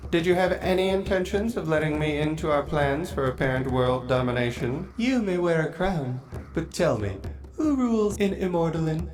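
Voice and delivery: measured, probing lord's voice; lightly voiced vampire lord. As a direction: challenge her, cool and proud. Vampire lord questions his queen.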